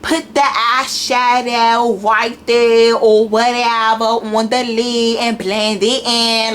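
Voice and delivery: a lightly put-on, slow, casual ghetto makeup tutorial; a hint of street slang in a beauty tutorial; mock ghetto tutorial voice. Shown as a demonstration. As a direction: play a careless tutorial host, drawling it out slowly. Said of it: "I'm not speaking like that on my makeup tutorials".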